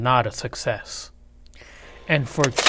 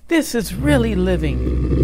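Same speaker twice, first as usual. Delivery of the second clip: put-on higher, louder gleeful kids; gloating kids; 7 semitones higher, 5 dB louder than usual. A narrator's reading. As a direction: kids crowing over their win. Kids happy.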